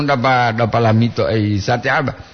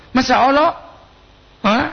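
surprised exclamation; 12 semitones higher than usual. Real, not acted. Exclaims at listener's name.

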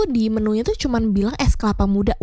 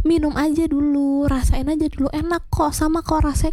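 higher-pitched imitation of someone insisting; pushy coaxing; 5 semitones higher than usual. Waitress pressing customer to just taste it, mock pushy. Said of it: "aku juga kesel kan ke mbaknya".

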